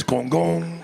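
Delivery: imitated TV gong; mimicked courtroom drama sound effect; Law and Order noise. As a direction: voice a two-note show sting. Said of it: "you hear the Law and Order noise".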